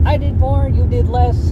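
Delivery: high mocking voice imitating the ex mid-argument; mocking ex-girlfriend. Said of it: "we were arguing back and forth".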